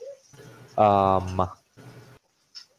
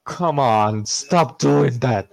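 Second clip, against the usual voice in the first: drawn-out, rising complaint; exasperated scolding; 4 semitones higher, slower than usual. Acted. Player to the pet that just bit, exasperated scolding. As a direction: plead crossly, stretching the words.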